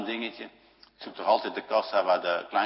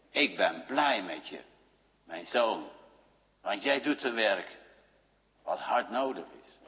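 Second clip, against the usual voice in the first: tender quote; 3 semitones lower, 6 dB quieter than usual. Retold or imitated. God speaks to his Son.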